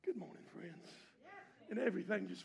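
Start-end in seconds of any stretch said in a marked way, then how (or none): 0.0-0.9 imitating the prophet. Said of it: "she hears that prophet's".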